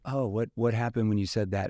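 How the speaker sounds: lightly curious question; a gentle what-happened, mildly interested. Shown as a demonstration. Salesman contrasting a weaker curious question, mild curiosity. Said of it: "if I used a curious tone".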